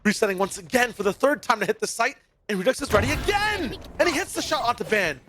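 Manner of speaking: building hype play-by-play; esports caster. Acted. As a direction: call every shot with rising energy. Live play-by-play casting.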